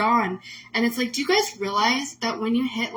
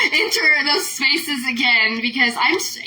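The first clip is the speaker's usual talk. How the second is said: laugh-crying; 3 semitones higher, 5 dB louder than usual. Real, not acted. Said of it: "laughing crying".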